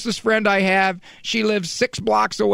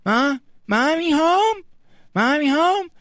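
put-on high, babyish repeat; a toddler repeating the caller's words; 8 semitones higher than usual. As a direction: parrot it like a three-year-old.

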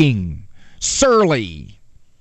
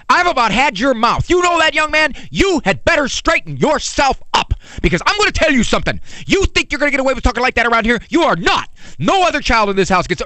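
angry parent rant; 8 semitones higher, faster than usual. Acted. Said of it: "It's more like this".

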